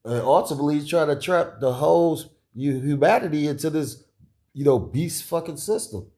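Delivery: ordinary talk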